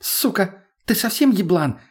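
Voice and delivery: high-pitched hysterical outburst; hysterical cry. A narrator's reading. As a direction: lash out hysterically, pitched well up. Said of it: "перешла на истеричный крик Лена".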